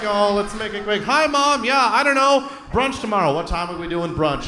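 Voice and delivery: rushed, put-upon phone voice; annoyed daughter on phone. Retold or imitated. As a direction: hurry the call along, half-annoyed. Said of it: "just like".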